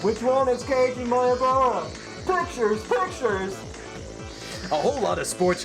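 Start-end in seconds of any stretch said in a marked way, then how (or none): 0.0-3.5 calling out. Acted. Reporter calling out.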